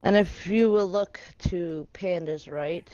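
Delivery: drawn-out ring announcer; announcer intro. Acted. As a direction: build each name up slowly. Wrestling-style player introduction.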